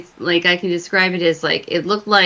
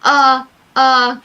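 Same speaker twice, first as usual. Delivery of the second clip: panicked yell; 6 semitones higher, 4 dB louder, slower than usual. Retold or imitated. Fleeing the haunted room.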